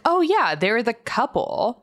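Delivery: high-pitched, drawn-out dawning realization; mock realization. Recalling to co-hosts how the casting clicked, mock realization. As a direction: act out finally catching on, pitch jumping up. Acting out belated realization of couple.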